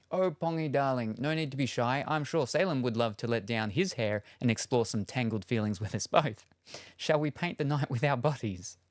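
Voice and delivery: lightly voiced flirty storybook princess; mock seduction to the chat; mock seductive Rapunzel. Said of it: "The cursed uwu".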